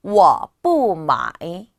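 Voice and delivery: 워 뿌 마이 slow and loud, each tone separated; model pronunciation. Shown as a demonstration. Teacher joins the words for learners, slow exaggerated tones. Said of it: "한 번만 더요".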